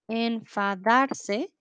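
enfadarse stretched out very slowly, syllable by syllable. Shown as a demonstration. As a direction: draw out enfadarse slowly for learners. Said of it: "teacher models the verb".

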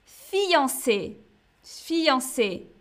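fiancé said fee-yan-SÉ with a nasal an and a closed é; fiancé modelled twice, the French way; teacher demo of fiancé; French pronunciation. Shown as a demonstration. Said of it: "on dit".

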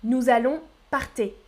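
"parter" with an é sound at the end; deliberately wrong "parter". Shown as a demonstration. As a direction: say "parter" rhyming with "parler". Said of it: "Écoutez les trois prononciations".

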